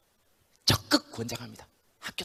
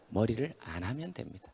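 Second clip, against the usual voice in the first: usual speaking voice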